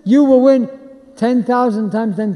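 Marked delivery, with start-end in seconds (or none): 0.0-0.7 stadium shout. Shown as a demonstration.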